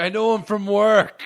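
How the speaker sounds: high, loud imitated exclamation; excited mock shout. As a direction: call it out like an excited character.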